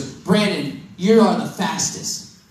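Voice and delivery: put-on slow, savoring each word of the girl's praise; slow quoted line. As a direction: let it land slowly, lingering on you. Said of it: "she said this".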